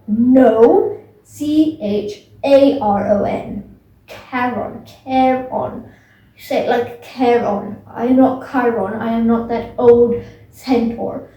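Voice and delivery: lightly voiced ferryman, indignant, spelling his name out slowly; a hint of a touchy ferryman correcting his name; Charon voice. Ferryman Charon correcting Percy's mix-up of his name, mildly indignant. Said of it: "I'm just making up voices".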